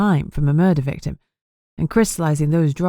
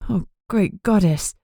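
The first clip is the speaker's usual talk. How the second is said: stunned; 3 semitones higher, slower than usual. Acted. Amber reacting to father's death.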